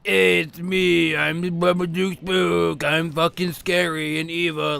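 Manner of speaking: a hint of hammy villain, mocked; mocking his own shtick. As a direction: rattles off his tired old "scary and evil" line in a sneering impression. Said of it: "doing the same old shtick".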